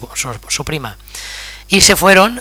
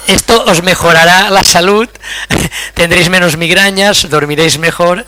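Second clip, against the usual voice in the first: laughing; 3 semitones higher, 5 dB louder than usual. Real, not acted. Still laughing after joke.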